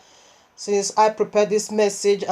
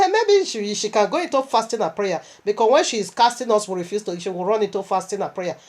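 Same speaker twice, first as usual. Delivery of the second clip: mocking demons. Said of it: "They were just mocking me".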